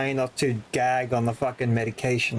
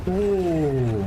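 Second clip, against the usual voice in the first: sudden scared gasp-like ooh; startled ooh; 4 semitones higher, 3 dB louder than usual. Real, not acted. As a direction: jump at a fright. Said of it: "That actually scared me".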